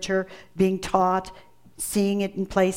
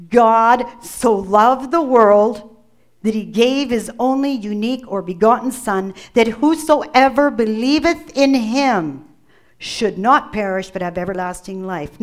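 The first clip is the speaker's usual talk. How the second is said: second reading. Shown as a demonstration. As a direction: lean on every phrase as you read it again. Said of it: "Let's read it again".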